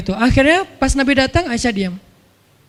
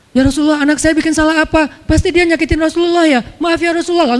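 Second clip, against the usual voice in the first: anxious apology; 6 semitones higher than usual. Retold or imitated. Umar anxiously apologises to Nabi.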